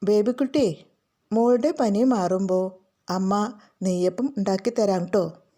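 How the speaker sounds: gentle, soothing mother; comforting. Acted. Mother promises her feverish daughter sweets later, gently comforting. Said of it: "ആശ്വസിപ്പിച്ച്".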